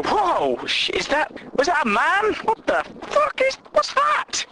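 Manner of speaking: rising high alarmed squeak; climbing to a shocked high pitch; mock shock. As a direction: recoil in hammed-up alarm.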